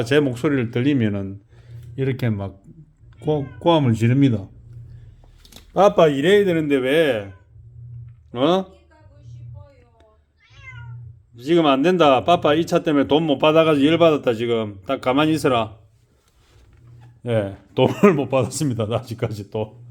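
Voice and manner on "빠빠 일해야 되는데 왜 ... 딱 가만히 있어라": scolding. Real, not acted. Scolds noisy girl while working.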